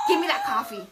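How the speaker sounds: hammed-up rude customer; laughing mock yell at a barista; rude demand. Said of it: "we're like".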